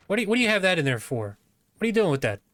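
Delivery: playful disbelief at the guard; surprised. Real, not acted. Player finds lockpick on guard.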